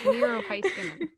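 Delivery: "Heiskanen" opening like "highs"; corrective pronunciation. Shown as a demonstration. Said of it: "that's how you pronounce it".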